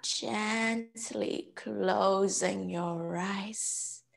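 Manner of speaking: slow, settling yoga-teacher voice; guided meditation. Real, not acted. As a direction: ease them down with drawn-out words and pauses.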